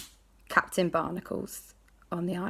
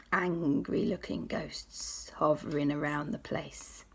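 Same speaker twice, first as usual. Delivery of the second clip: slow, softer whispered warning; spooky whisper; 3 semitones lower, 8 dB quieter, slower than usual. Acted. Jack describing hovering ghosts, whispering slowly. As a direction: whisper it like they might hear.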